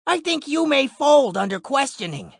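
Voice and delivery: lightly voiced mock Italian gangster; cheesy tough-guy accent, pointing. Cop teasing Alex, still in mock Italian accent. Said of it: "still speaking with the accent".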